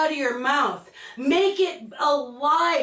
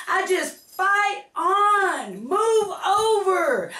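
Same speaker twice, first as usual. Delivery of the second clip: defiant cry; 6 semitones higher, slower than usual. Acted. Defiant outburst about haters.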